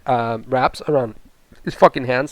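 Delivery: talking through burps; a burp breaking the words. Real, not acted. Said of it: "burping all over the place".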